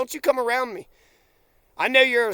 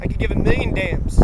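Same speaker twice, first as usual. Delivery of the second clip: high squeak; 13 semitones higher than usual. Real, not acted. Outburst in a rant.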